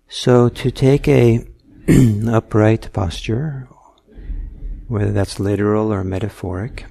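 measured meditation guidance with long pauses; guided meditation. Real, not acted. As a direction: unhurriedly guide listeners into noticing their breath. Leads a guided breathing meditation.

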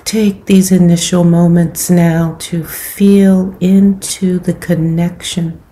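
calm, unhurried meditation guidance with long pauses; guided meditation. Acted. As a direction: gently guide them into settling the body, leaving space between phrases.

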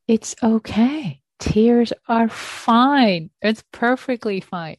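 slow it right down and soothe her; reassuring. Real, not acted. Teacher soothing a tearful student, slow and gentle.

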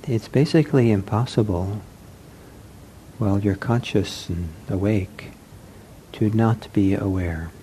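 unhurried meditation guidance with long pauses; guided meditation. Acted. Teacher to seated meditators as they settle, guided meditation. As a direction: gently guide sitters, leaving long silences.

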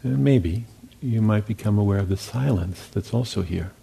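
calm, unhurried guiding voice with long pauses; guided meditation. Real, not acted. Teacher guiding meditators into listening to sounds and silence, calm meditation voice. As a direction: lead them gently, leaving long silences between phrases.

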